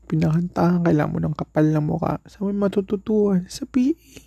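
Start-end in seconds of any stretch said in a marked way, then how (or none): 3.5-4.2 emphatic answer. Real, not acted. Answers own question emphatically.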